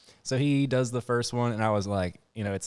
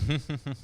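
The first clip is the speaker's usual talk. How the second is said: mock doctor's chuckle; short put-on laugh; imitated chuckle; 4 semitones higher than usual. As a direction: imitate someone starting to laugh. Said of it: "He starts laughing".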